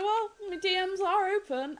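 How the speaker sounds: high-pitched, playful quoted reply; coy retold reply. Streamer replaying own reply to future boyfriend, high and coy. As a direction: toss it out high, as a coy invitation.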